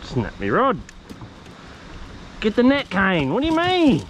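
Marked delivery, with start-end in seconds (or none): 2.4-4.0 loud, high call for the net; excited shout. Real, not acted. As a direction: shout it out, thrilled. Calling for the net.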